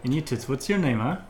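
brash dock worker hollering at the rich; rough fisherman. Acted. Fisherman character.

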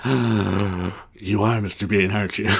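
slow, drawn-out mock reveal; dramatic realization. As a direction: let the truth dawn slowly. Acted dramatic realization after turning round.

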